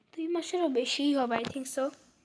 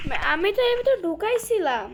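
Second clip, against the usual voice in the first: higher-pitched, frustrated complaint; exasperated protest; 5 semitones higher than usual. Real, not acted. Player insisting the piece was already put in, exasperated.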